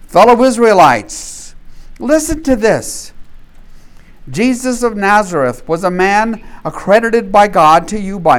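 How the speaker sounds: loud, ringing apostle's appeal to the crowd; preaching as Peter. Acted. Peter to the Jerusalem crowd, loud preaching. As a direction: proclaim it like Peter rising before the crowd.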